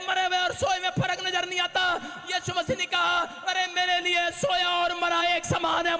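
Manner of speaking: a pastor lifting the crowd; fiery preaching. Acted. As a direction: preach it out to the whole church. Preaching at full force.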